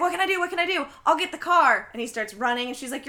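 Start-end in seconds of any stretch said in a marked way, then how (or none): 0.0-1.9 high, frantic mock panic; panicky Johnny. Johnny panicking while his dad gets the car, high frantic voice. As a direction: flap around like a panicked teen, pitched up.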